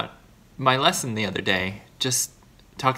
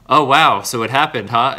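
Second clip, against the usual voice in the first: surprised greeting; 8 dB louder than usual. Retold or imitated. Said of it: "and I was like".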